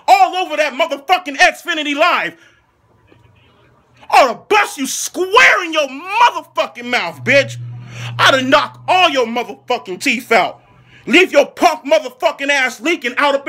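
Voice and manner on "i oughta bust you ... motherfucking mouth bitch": yelled threat. Acted.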